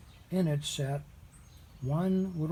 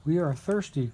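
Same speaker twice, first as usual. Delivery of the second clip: cried out; 5 dB louder than usual. Acted. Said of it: "cried the hundreds".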